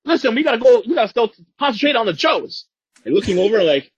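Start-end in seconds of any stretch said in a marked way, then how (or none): 0.0-2.7 high, loud whiny villain voice; a fussy, panicky commander brushing it off; Cobra Commander. Retold or imitated. Cobra Commander waving off the Baroness, high and whiny. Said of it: "Cobra Commander".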